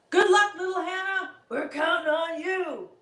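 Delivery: lightly voiced growly monster; a hint of an under-the-bed monster; low monster voice. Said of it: "I can't do a really good Bugaboo voice".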